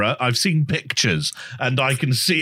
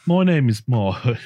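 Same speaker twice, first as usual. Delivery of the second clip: put-on Brummie accent going wrong; 3 semitones lower than usual. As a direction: wobbly attempt at Brummie. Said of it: "Okay, it's going wrong now".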